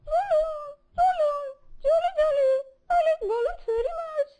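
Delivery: excited, loud and fast about balloons; happy excitement. Acted. Child delighted on seeing balloons in the picture. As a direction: bubble over with joy at the balloons. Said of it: "you are very happy on seeing the balloons".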